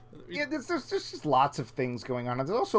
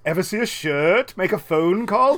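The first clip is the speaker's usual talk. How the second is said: mock question; 5 semitones higher, 7 dB louder than usual. Voicing invisible man jokes.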